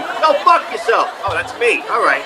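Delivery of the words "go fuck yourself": high, drawn-out New York curse; hammed-up New York street insult; mock cursing. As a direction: curse yourself out like a New Yorker. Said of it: "walk around myself going".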